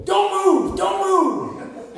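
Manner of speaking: high, loud shout of don't move; loud panicked command; shouted warning. Retold or imitated. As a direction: bark it like a startled man with a gun. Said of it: "I hear a voice go".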